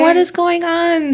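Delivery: high-pitched baffled question; playfully exaggerated "what on earth"; mock bewilderment. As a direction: pitch it up, acting out your confusion. Retelling her bewildered walkie-talkie reply.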